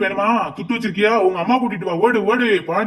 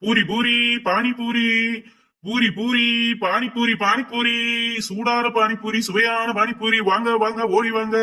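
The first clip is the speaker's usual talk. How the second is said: sing-song vendor call; hawker's cry; 4 semitones higher, slower than usual. Acted. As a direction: cry out your wares.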